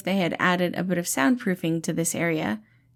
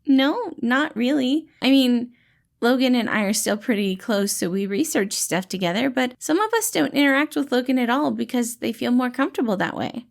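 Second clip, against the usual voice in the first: gentle dad-like rescuer, pitched up and bright; cheerful caretaker Patton; 5 semitones higher than usual. Acted. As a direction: play the kind, upbeat helper calming a scared kid. Patton explains community.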